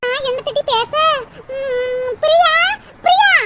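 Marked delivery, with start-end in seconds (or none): 2.2-3.3 calling out. Acted. Calling Priya to get attention.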